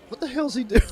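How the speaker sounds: imitating a baffled laugh; Aisha's reaction. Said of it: "That's exactly what she says".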